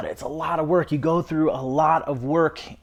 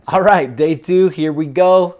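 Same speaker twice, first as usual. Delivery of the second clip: excited; 3 semitones higher, 7 dB louder than usual. Real, not acted. Kicking off day two on camera.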